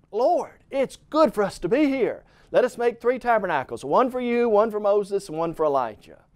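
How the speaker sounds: high-pitched, mildly flustered quote of a disciple; Peter speaking up. Retold or imitated. Disciple blurting to Jesus on the mountain, mock nervous speaking up. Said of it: "speaks up. He's afraid".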